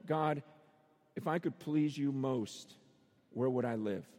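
low, measured appeal to God; voiced prayer, low and sincere; earnest prayer. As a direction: ask God humbly, with pauses. Earnest prayer, contrasted with self-interest.

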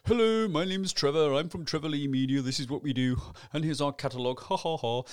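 a hint of a smug salesman reeling off his intro; understated mock self-introduction ending in a fake laugh; lightly mocked boring pitch. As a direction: parody the dull pitch, only lightly voiced. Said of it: "everybody else will go".

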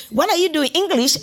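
mock the shocked parent hearing their child picked English; a parent appalled at the child studying English; disapproving African parent. African parent scolding choice of subject.

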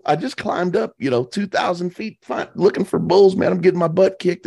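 high, worked-up report; telling Joe about the climb, high and wound up; excited venting. Retold or imitated. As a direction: tell it like you're half laughing at yourself. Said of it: "I go".

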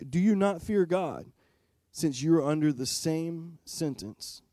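careful sermon reading voice; scripture reading. Acted. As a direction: read the verses deliberately, letting them land. Pastor reads scripture passage aloud.

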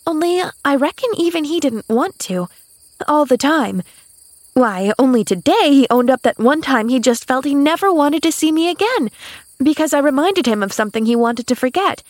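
put-on high child voice, confiding; earnest young girl. A narrator's reading. Girl confiding his confession to the maid, earnest. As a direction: explain eagerly as a young girl.

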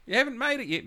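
put-on high child's voice complaining; kid calling out. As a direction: whine it back like a kid.

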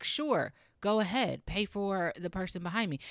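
imagined customer happily agreeing, pitched high; eager agreement. Acted. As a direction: chirp a generous yes, starting high. Acts out happy drive-through customer agreeing.

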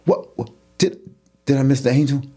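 indignant, high-pitched string of questions; incredulous bystander. Acted. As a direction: play a puzzled onlooker who feels cheated. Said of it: "automatically you're thinking".

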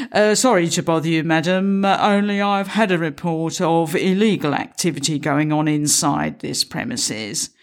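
lightly voiced hesitant young officer; a touch of a nervous constable, a little quick at first; sheepish PCSO at the door, lightly voiced; young policeman's voice.

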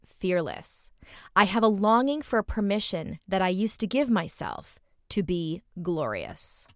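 measured reading that slows on closing phrases; expressive essay reading. A narrator's reading. Host reads the writer's longing for permission, measured expressive reading. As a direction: read the confession aloud with deliberate phrasing.

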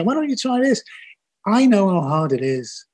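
high, breezy mock-helpful question; glib advice. Old filmmaker mocking smug advice to young people, lightly glib. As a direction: toss off easy advice like an old-timer. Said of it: "glib sentences to people and say".

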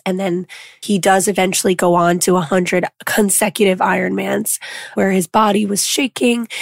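lost voice, hoarse and rough; talking through a hoarse voice. Real, not acted. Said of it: "I lost my voice".

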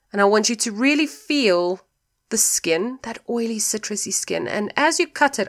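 walk the listener through it gently; guided visualization. Acted.

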